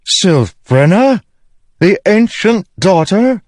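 high, slow, incredulous call; shouted question. A narrator's reading. Honor spren looking down at Syl from the ship, shocked shout. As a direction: shout it down slowly in utter shock. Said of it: "one shouted".

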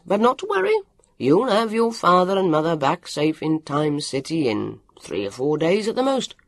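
Mr Donegal talking. Acted. Mr Donegal reassures Vivian about her parents, lightly voiced hearty official. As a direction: play a hearty patrol chief reassuring a child, lightly.

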